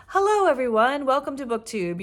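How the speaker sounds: lightly imitated straightforward host greeting; a hint of a no-nonsense video intro; Sandy. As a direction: mildly mimic a businesslike welcome. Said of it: "straightforward, and she just has a very almost no-nonsense way".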